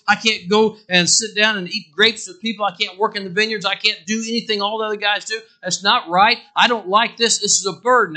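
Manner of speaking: a hint of Samson moaning about his burden; complaining Samson.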